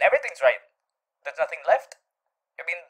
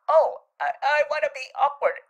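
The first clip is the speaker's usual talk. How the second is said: mock silly voice; 10 semitones higher, 3 dB louder than usual. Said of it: "what if I woke up one day and I decided".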